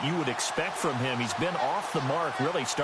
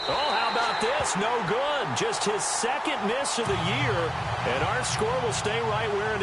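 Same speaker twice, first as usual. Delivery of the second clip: higher-pitched, surprised sportscaster call; animated commentary on a missed kick; surprised play-by-play; 4 semitones higher than usual. Real, not acted. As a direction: call a surprise miss live, voice lifted.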